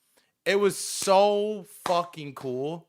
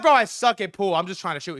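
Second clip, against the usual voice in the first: higher, louder protest; raised-pitch whiny excuse to a pushy player; mock protest; 4 semitones higher, 3 dB louder, faster than usual. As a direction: plead your case, voice jumping up.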